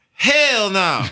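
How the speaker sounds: high, loud hell no of disbelief; shocked high yelp; shocked denial. Retold or imitated. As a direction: yelp it out, can't believe it's him. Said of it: "I was like".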